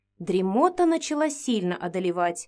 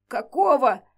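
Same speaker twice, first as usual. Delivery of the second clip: hoarse rasp; 2 semitones higher, 4 dB louder than usual. Acted. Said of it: "просипела я, держась за горло".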